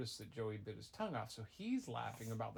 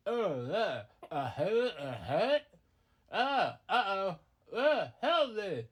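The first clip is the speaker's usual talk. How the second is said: high, loud, slow garbled panic; panicked tongue-stuck babble; 9 semitones higher, 11 dB louder, slower than usual. Acted. Joey, tongue stuck out, panics to his friend in high garbled cries. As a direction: blurt through a tongue stuck out, terrified.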